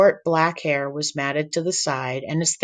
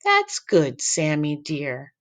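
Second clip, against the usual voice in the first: tender grandma; slower than usual. Acted. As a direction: coo it lovingly like grandma. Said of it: "Grandma's words were softened with love".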